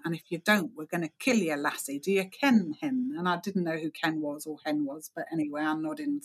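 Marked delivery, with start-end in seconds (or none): 0.0-3.1 a light imitation of a Scottish accent, mock stern; hint of a Scottish accent, barking an order. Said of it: "a suggestion with a Scottish accent".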